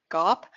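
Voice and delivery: GAAP said as "garp" with a long open ah; "garp" rhymes with carp, South African vowel. Real, not acted. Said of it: "in my South African accent".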